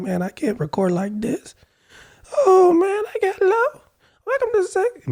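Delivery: very high-pitched voice, mostly gone and blown out. Speaker recalls trying to record yesterday after his voice went out, imitating it. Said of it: "this is how I was talking when I was trying".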